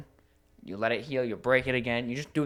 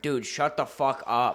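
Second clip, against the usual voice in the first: tired snap; 5 dB louder than usual. Retold or imitated. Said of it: "I just turned and went".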